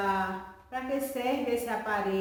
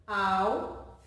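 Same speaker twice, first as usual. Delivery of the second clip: syllable by syllable; 5 semitones lower than usual. Shown as a demonstration. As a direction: break "alfabeto" into four separate pieces. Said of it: "Quatro pedacinhos".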